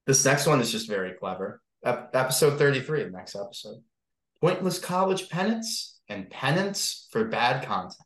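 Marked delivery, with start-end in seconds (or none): 4.4-7.9 slow, lifted storybook read; storyteller reading. Pretend. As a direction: read it grandly to the class. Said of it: "like, you're reading to the class".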